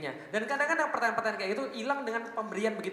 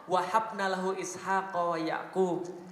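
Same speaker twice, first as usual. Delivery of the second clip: slow recitation; much slower than usual. Acted. Quranic recitation.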